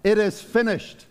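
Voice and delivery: slow solemn quote. Retold or imitated. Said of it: "Jesus on the cross".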